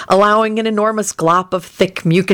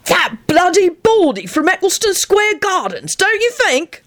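very high, gleeful delivery; enthusiastic; 13 semitones higher than usual. A narrator's reading. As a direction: gush excitedly in a much higher pitch. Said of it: "he said enthusiastically".

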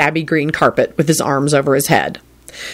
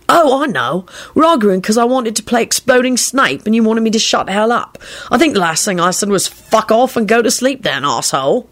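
higher, animated remembering; lively higher voice; 6 semitones higher than usual. Acted. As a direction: recall it with gusto. Sirius recalls old quarrel.

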